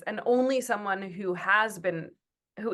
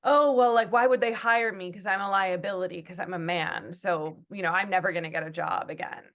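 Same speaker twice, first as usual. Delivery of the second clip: aggrieved man. Retold or imitated. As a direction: mimic a man whining he's a victim. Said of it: "I've heard men say things like".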